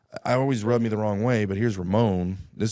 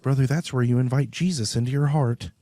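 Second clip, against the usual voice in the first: 1 imagined preacher quote; 5 semitones higher than usual. Retold or imitated. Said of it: "I just knew he was gonna be like".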